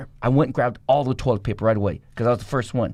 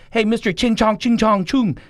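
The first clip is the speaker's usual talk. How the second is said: mocking guard; 10 semitones higher, 4 dB louder than usual. Guard taunting him on arrival.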